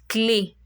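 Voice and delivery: "clé" ending in a closed ay sound; French é sound. Shown as a demonstration. Teacher gives learners the first example, careful French pronunciation. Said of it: "The A sound".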